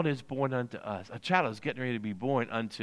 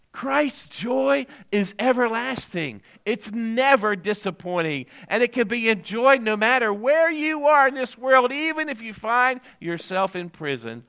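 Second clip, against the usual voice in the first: raised, emphatic preacher's delivery; preaching; 10 semitones higher, 7 dB louder than usual. Real, not acted. Pastor assuring the congregation of everlasting joy, preaching. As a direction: build it up like a preacher driving home a promise.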